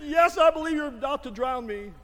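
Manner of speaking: high, loud yelp of protest; mock desperate boy. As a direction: play the half-drowned boy crying out for comic effect. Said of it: "he was just gasping".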